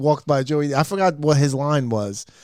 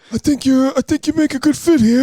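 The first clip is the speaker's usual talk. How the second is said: put-on high old man voice; 10 semitones higher, 3 dB louder than usual.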